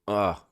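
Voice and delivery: sudden sharp hiccup gasp; a real hiccup catching the breath. Real, not acted.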